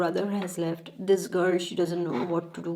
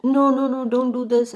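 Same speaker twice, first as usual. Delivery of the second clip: higher, louder begging, lightly acted; mock-frantic protest from a storyteller; retold panicked plea; 5 semitones higher, 7 dB louder than usual. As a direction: beg the gunman to stop, voice raised. Boy begs before being shot.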